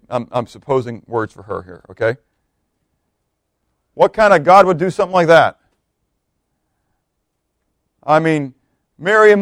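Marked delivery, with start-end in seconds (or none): 3.9-5.6 louder, higher indignant challenge; a hint of an outraged grandma protesting God; grandma's outburst. Preacher voicing his grandma's indignant protest, louder. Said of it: "In the words of my grandma".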